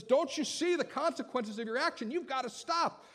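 a father stepping in, firm and loud; stern father. Acted. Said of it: "and says".

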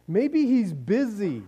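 slow, mock-helpful suggestion; sarcastic mocking. Elijah taunting them about their absent god, sarcastic mocking. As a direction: needle them with a drawn-out maybe. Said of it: "because the sarcasm here".

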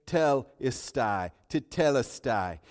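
tetelestai as teh-teh-LES-tie; Greek word. Shown as a demonstration. Pastor teaching the Greek word, careful pronunciation. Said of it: "the word here is".

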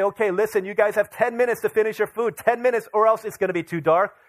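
acted-out warning to dawdling kids; stern parental warning. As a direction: lay down the deadline like an exasperated parent.

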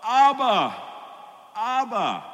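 loud, high, tearful cry of Abba; imitating sobbing. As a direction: mimic a daughter sobbing over her dying father. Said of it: "she's sobbing and she's going".

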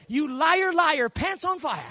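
high, slow playground chant; mock taunt. Preacher teasing those who deny worry, high mock taunt. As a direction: taunt like a kid, drawn out.

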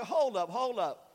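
easy, low, settling voice; laid-back reassurance. Acted. Disciple with a happy thought to crewmates, relaxed reassurance. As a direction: talk the crew down from panic. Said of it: "got their happy thought".

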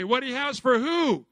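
loud call to the congregation; call and response. Shown as a demonstration. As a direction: lead the room, loud. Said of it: "Come on, say that with me".

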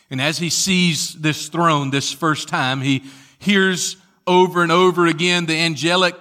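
loud, proclaiming pulpit voice; forceful preaching. Real, not acted. Preacher recounting the angelic chorus, forceful preaching. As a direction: proclaim it to the whole church.

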